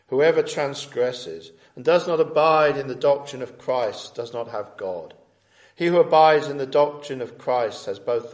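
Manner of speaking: measured reading with firm openings and falling line ends; scripture reading. Acted. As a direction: read the epistle aloud to a congregation, phrase by phrase. Reads the epistle aloud.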